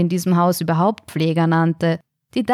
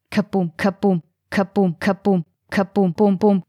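thumping drumbeat chant, beat by beat; a pounding percussion solo; drumming heartbeat. A narrator's reading. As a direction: knock the beats out like a drum. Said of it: "lautes Percussion-Solo".

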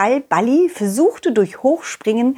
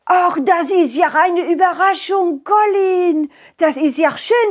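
put-on old lady voice. Sick Madame greets visitors.

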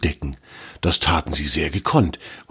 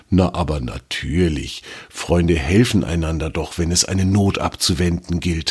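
friendly. Acted. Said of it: "sagte Torm freundlich".

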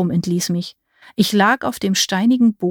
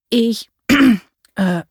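halting, clearing the throat; repeated throat-clearing; 4 semitones higher, 5 dB louder than usual. A narrator's reading. Startled visitor addresses the old witch, clearing his throat. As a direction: clear your throat between hesitant words. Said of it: "mehrfach musste ich mich räuspern".

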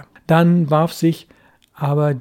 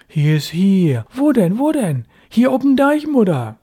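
put-on a boy shouting back, higher and louder; calling back; 5 semitones higher, 5 dB louder than usual. A narrator's reading. Boy answers his mother from the dike, calling loudly. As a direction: shout across the dike so she hears.

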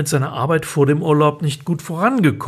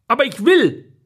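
put-on high, louder little-boy whine; whiny child; 10 semitones higher, 3 dB louder than usual. Louis whines at Paola in the car, high childish voice. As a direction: whine like a stubborn kid.

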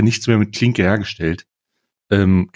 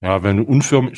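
talking through a cookie; chewing while talking. Real, not acted. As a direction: mouth full of cookie. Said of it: "sorry, ich esse grad ein Plätzchen".

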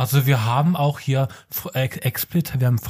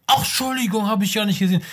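apologetic shopper; 6 semitones higher than usual. Retold or imitated. Acts shopper bumping into someone.

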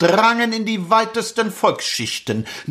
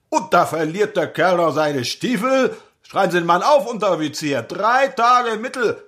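clipped nasal officer. Acted. Lieutenant orders punishment.

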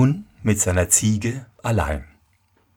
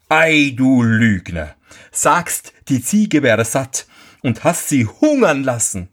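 zorniger Schneider; 3 semitones higher than usual. Acted. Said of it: "rief der Schneider".

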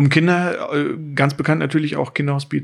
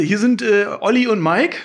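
laughing; 6 semitones higher than usual. Real, not acted. Laughing introduction on the call.

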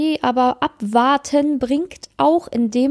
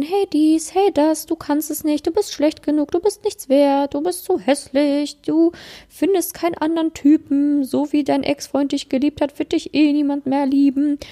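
a slightly raised, needling voice running her down; nagging inner critic; 3 semitones higher than usual. Pretend. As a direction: play the little ego sneering at her. Ego talks the listener down. (leicht gespielte, nörgelnde Stimme des inneren Kritikers)

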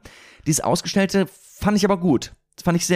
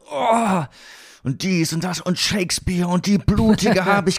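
overacting actor; 3 semitones higher, slower than usual. Shown as a demonstration. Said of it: "manchmal so voll rein und alles".

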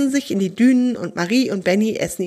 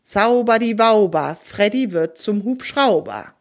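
magic spell. A narrator's reading.

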